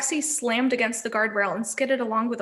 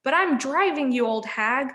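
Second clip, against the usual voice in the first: quarrelling hag; 2 semitones higher than usual. Acted. Sisters quarrelling in taxi.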